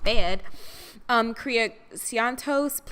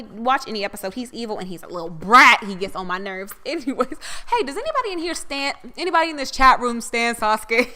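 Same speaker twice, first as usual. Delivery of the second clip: normal talking voice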